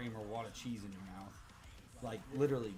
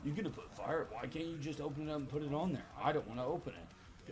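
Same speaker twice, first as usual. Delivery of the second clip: higher-pitched mock demanding questions; imitating whiny customer; 5 semitones higher than usual. Drunk customer demanding fire sauce, lightly imitated, high-pitched. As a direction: pitch it up as a pestering customer, easing down. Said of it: "he's like".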